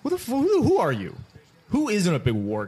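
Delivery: can't believe what he just heard; exasperated disbelief. Real, not acted. Co-host's quote sets him off.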